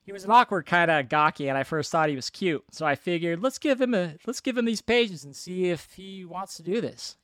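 lightly voiced reporter-like delivery; emphatic, slightly put-on interviewee voice; Joe Dante. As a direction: read the quote out like a reporter. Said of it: "You're like a reporter".

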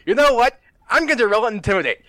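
high, loud, cocky announcement; boastful orc challenge. Retold or imitated. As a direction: throw down a comic challenge. Acted orc line in retold webcomic.

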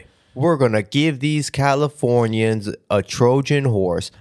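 a badly faked Australian accent, drawn out; terrible Australian. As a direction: ham up a bad Australian accent. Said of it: "that's a terrible Australian".

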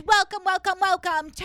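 hammed-up host greeting; late-night host impression. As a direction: welcome called out high and loud. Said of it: "He goes".

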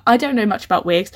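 ordinary delivery

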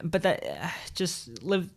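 whispered aside; whispering. Real, not acted. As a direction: whisper it under your breath. Aside to co-host.

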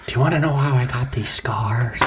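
lightly voiced Joker menace; Joker impression. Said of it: "That's pretty good".

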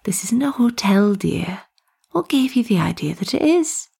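lightly voiced tea lady, lilting up on the question; amused tea lady. Tea lady setting two lost students straight, amused.

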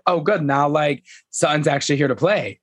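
a touch of glee at a new rival; excited. Retold or imitated. Imitating a castmate welcoming a sparring partner, mildly excited. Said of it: "I think she got excited".

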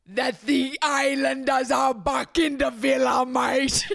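bad British accent. Host announcing the show's return in mock British accent. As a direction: shout it in a hammy British accent. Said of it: "nobody thinks that sounds British".

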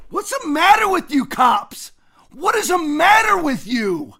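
heated rant, shouting questions; fired-up yelling. Real, not acted. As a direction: demand answers, raising your voice. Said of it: "Sorry for getting all fired up".

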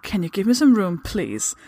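understated British telling-off; firm British politeness. Acted. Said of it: "I said firmly".

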